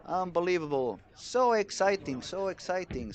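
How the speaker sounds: high-pitched, elated commentator outburst; thrilled celebration. Real, not acted. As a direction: cheer the player on, voice soaring. Commentator celebrates Nora's decisive strike.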